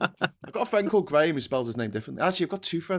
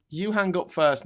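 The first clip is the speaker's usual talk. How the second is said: giggly late night call; 4 semitones higher than usual. Retold or imitated. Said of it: "Is how I imagine it went".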